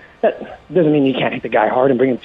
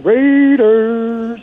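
excited cheer; 10 semitones higher than usual. Real, not acted. Rallying cry ending his call.

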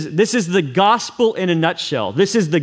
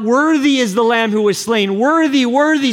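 crying out in awe; 4 semitones higher than usual. Retold or imitated. Elders bowing before the Lamb, crying out in awe. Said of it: "they're crying out".

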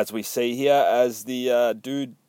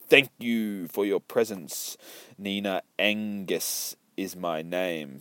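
put-on old lady ghost; 4 semitones lower, 6 dB quieter, slower than usual. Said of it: "says the lady who seanced the up".

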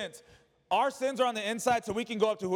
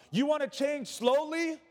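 rhetorical question; 6 semitones higher than usual. Acted. Preacher's rhetorical challenge.

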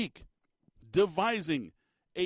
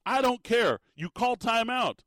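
mock yell; 5 semitones higher, 4 dB louder than usual. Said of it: "he goes".

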